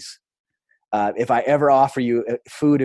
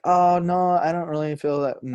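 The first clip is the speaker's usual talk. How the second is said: high, raised-voice demurral; awkward protest; 7 semitones higher than usual. Retold or imitated. Storyteller deflecting a stranger's praise, high awkward protest. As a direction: protest the compliment in a higher voice.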